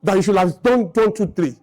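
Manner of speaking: gently respectful, as if asking to be taught; humble polite request. Retold or imitated. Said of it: "That's how you talk".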